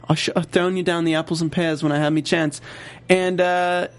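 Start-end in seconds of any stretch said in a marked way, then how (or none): 0.1-2.6 weak Cockney again; bad Cockney threat; bad British accent. Repeated bad British accent. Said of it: "Your British accent kinda sucks".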